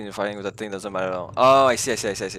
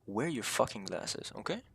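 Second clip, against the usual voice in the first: mock stern scolding; 12 dB quieter than usual.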